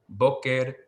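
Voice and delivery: "Boker" with the accent on "Bo"; first-syllable stress. Shown as a demonstration. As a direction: slowly model "Boker", weight on the first syllable. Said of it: "the ones with the accent marks".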